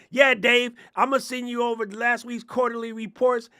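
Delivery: blaring mock office bro; mock loud phone caller. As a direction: parody an oblivious businessman on a call. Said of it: "You see idiots walk around".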